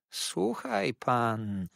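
very slow, drawn-out warning. Acted. Jurajach cautions the old man, warningly. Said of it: "ciągnął ostrzegawczo Jurajach".

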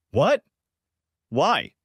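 startled high what; surprised. Acted. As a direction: caught off guard, pitch jumps up. Mother caught off guard.

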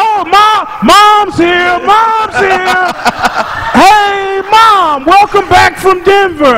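very high, drawn-out family cheer; mock excited greeting. Family welcoming Mom at the airport, high mock-excited calling. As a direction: imitate overjoyed kids calling out way up high.

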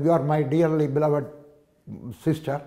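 very slow, stately English recital; grandly drawn-out love letter; ornate letter reading. Retold or imitated. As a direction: savour each word like a flowery letter. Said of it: "നല്ല അലങ്കാര ഭാഷയിൽ".

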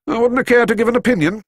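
quick, grave Scottish reply; a Scots doctor refusing to hope. A narrator's reading.

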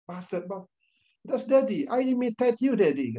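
a child owning up, lightly voiced; three-year-old copying his dad.

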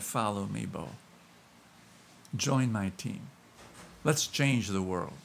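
gentle call. Acted. Jesus's quiet call retold.

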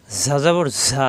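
ঝা as a long, pressed buzz; pressed buzzing consonant. Shown as a demonstration. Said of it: "জিব্বা নিচে যেতে চাপ দিয়ে".

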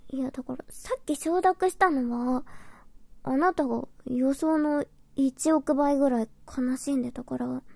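usual speaking voice

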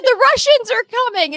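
put-on high, loud alarmed child; alarmed kid. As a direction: warn them like a frightened kid. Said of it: "I said".

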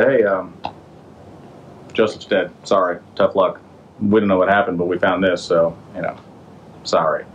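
low, unconcerned mock apology; offhand bad news. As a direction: break bad news with a casual shrug in the voice. Brothers break bad news to dad.

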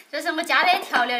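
giggling through the words; laughing. Real, not acted. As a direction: laugh while admitting it. Laughs at own heavy seasoning.

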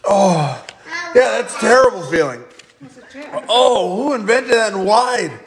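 strained, hurting to breathe; pained breathing. Real, not acted. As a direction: speak through burning pain. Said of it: "it hurts to breathe".

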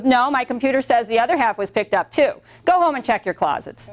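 "Go home and check your closets" as a flat, dismissive order; curt brush-off. Retold or imitated. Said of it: "That's how she talked to me".

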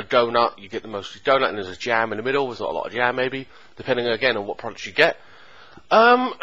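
speaking between bites of food; talking while chewing. Real, not acted. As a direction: mouth partly full of pastry. Seen 3: holds pastry at mouth, talking between bites until about 11s.

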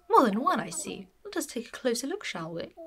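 a hint of a posh curator peering closer; lightly posh, brisk; posh owl curator. Player voicing Blathers examining fossils, lightly posh.

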